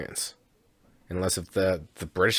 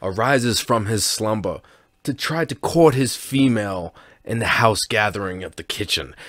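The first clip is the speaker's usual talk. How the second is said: nature documentary narrator. Pretend. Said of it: "I'll, like, be like".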